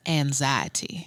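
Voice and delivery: "anxiety" said slowly, as the teacher pronounced it; teacher's odd pronunciation. Retold or imitated. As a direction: imitate a teacher's peculiar, drawn-out "anxiety". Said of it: "she pronounced the word".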